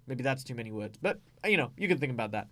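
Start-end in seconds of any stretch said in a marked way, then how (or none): none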